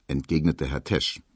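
ordinary delivery, nothing marked

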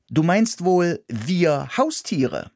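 high, cheeky little mouse; stubborn mouse telling them off; defiant mouse voice. A narrator's reading. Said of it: "gab ich zurück".

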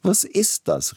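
sudden high startled cry; Tchaikovsky startled by his own chatter, cries out; exclaiming. A narrator's reading. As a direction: jolt upward, catching himself. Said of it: "rief Tschaikowski".

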